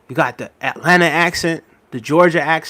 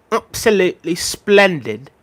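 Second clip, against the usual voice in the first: slow British "Absolutely splendid", lightly put on; mock British accent; 2 semitones higher, slower than usual. Shown as a demonstration. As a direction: say "Absolutely splendid" like an English gent, unhurried. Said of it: "You see how I did that?".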